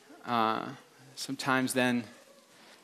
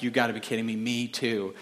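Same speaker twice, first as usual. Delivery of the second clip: hushed disbelief; 5 semitones lower, 5 dB quieter than usual. Acted. Joke: awed disbelief at coincidence.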